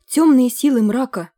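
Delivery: loud, high, theatrical cry; pompous exclamation. A narrator's reading. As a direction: declaim it grandly. Pompous chronicler's address.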